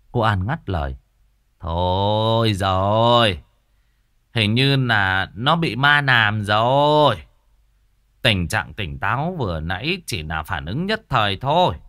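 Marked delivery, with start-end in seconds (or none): 1.6-11.8 slow, ominous, knowing pronouncement; grave healer. Acted. Healer telling the mother her son is possessed, slow and ominous. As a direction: lay down the verdict slowly.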